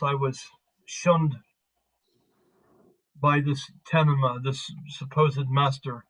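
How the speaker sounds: lightly gruff, measured grumble; gruff Caliban. Acted. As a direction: voice a mildly disgruntled warrior, only slightly gruff. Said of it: "in kind of a gruff voice".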